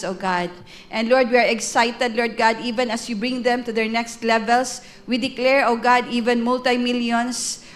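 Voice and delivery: earnest, ringing prayer over the couple; fervent prayer. Acted. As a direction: declare blessings to God with rising fervour. Leads a prayer aloud. (taimtim na panalangin)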